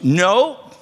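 put-on sulky child refusing comfort; a hint of a pouty daughter; pouting little girl. Pastor voices pouting little girl.

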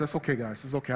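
murmured reassurance under the breath; soft self-soothing murmur; quietly calming a cabin full of scared passengers. Retold or imitated. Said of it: "I say in my breath".

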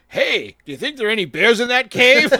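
high silly puppet voice; squeaky hunter-head puppet. Pretend. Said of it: "puppet show".

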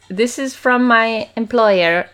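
a light hint of a stiff, formal butler; slow, lightly put-on formal servant voice; posh butler voice. Driver handing over a gift in a light formal voice. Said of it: "He doesn't talk like that".

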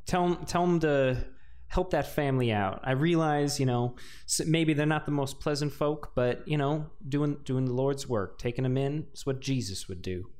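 folksy Texan clergyman; Southern preacher accent, gently coaxing; progressive Texas accent. Acted. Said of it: "I love the progressive accent".

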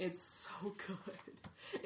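breathless slow whisper. Real, not acted. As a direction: whisper it in awe. Awed reaction to the story.

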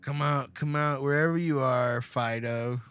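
taunting sing-song call; a taunting villain calling a dog. Retold or imitated. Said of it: "he's like".

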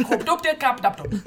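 put-on baby's sound-talk. Newborn answering mother in sounds, playful gibberish. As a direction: babble in popping little syllables. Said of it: "The baby's like".

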